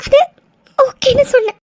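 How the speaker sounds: crying. Acted. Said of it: "முதல்ல அலறதை நிறுத்துங்க".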